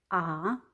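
A-fi-ne said in three separate syllables A, fi, ne; split into syllables. Shown as a demonstration. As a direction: tap out A-fi-ne one syllable at a time. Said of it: "Să despărțim în silabe". (A-fi-ne rostit pe silabe)

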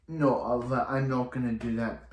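lightly attempted Russian accent; bad Russian accent. Retelling Anatoly refusing Oliver, in a bad Russian accent. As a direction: put on an amateurish Russian accent. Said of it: "bad Russian accent".

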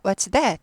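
"What's that" with the pitch falling on "that"; falling tune. Shown as a demonstration. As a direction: bring "that" down. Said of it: "내려가요".

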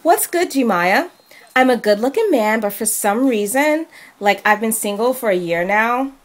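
hint of a valley girl voice; lightly put-on white girl voice. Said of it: "Do your white girl voice".

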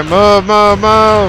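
loud, high urgent yell; shouting orders. Real, not acted. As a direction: push them out, now. Urgent order to move units.

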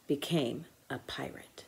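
soft whisper; whispered ending. A narrator's reading. Narrator ends the scene: soft whisper. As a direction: breathe the last words out.

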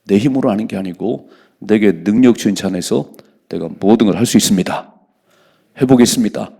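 loud, bold statement of faith; confident declaration. Shown as a demonstration. Preacher showing the congregation how to speak in faith, loudly. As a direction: declare it boldly. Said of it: "이렇게 말을 해야지".

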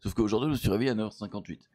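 gravelly voice. Real, not acted. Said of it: "Pardonnez peut-être ma voix rauque".

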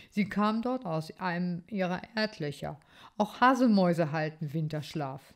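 a hint of a proud young titmouse explaining; lightly voiced bird boy. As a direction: show off your garden knowledge. Amadeus voiced by reader.

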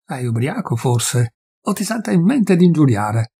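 a touch of disbelief; astonished. Acted. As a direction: forester puzzled by the insults. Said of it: "disse con stupore".

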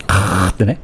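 wrong snore, blown out through the throat; a quiet demo of an exhaled snore. Shown as a demonstration. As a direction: blow the snore outward on the breath, the wrong way. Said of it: "吹くといびきっぽくないんですよ".

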